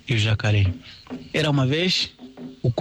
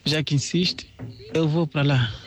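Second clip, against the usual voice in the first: raised, playful storytelling voices; animal character voices; 5 semitones higher than usual. Acted. Rabbit coaxing the partridge into the grass, playful high voices. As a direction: let the rabbit brag and coax.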